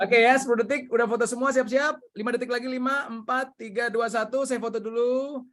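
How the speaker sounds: high-pitched get-ready call; rallying photo countdown. Real, not acted. Host readies participants for a group photo, high excited countdown.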